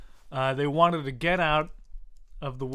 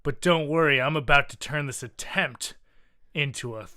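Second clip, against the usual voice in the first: louder, hammy villain with a gun; gloating villain; 3 dB louder than usual. Acted. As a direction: savour the evil reveal.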